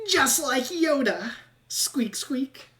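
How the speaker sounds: slow, high rat voice ending in whispered squeaks; a rat playing Yoda from inside the sack; rat imitating Yoda. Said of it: "he goes".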